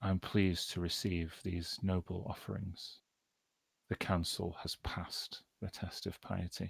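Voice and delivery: soft, gentle, otherworldly voice. Narrating the game, a voice from beyond answers the players' commitments: gentle voice from beyond. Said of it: "you hear this gentle voice from beyond".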